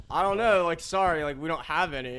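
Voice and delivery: mock flustered worker. Brother answering upset customer.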